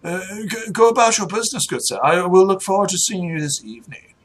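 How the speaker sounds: lightly voiced aristocratic send-off; airy lordly farewell; dismissive noble. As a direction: politely dismiss a hired man. Game master plays the noble.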